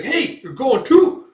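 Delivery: little fairy voice. Acted. Puck chasing after Guts, high squeaky call.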